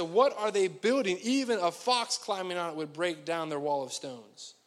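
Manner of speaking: mock them, leaning on the opening words; old-school taunt, lightly acted; trash talk. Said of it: "ancient trash talk".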